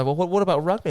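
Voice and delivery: high, mock-puzzled question; insistent Aussie. Aussie trying another sport on him, high mock-puzzled voice.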